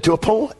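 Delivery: "To a point" lifted, rising at the end; stress on "To a point". Retold or imitated. Pastor correcting himself on caring, emphatic "To a point". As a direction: hold "To a point" apart as a caveat. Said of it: "I emphasize that".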